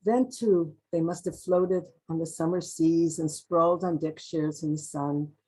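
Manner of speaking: title set apart, then measured recital; poetry reading. Acted. Poet imagining their summer holidays, measured poem reading. Reads own poem aloud.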